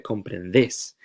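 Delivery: comprendes with the final "des" stressed, as "déis"; slow comprendes, leaning on the ending DÉIS; stress on last syllable. Shown as a demonstration. Teacher modelling the vosotros form, slow final-syllable stress on comprendes. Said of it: "Make sure you really accentuate that stress".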